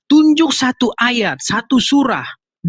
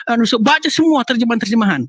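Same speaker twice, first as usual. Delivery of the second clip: normal talking voice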